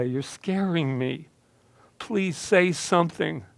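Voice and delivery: tearful, slow frightened begging. Acted. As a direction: beg him through tears. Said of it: "I was begging him by now".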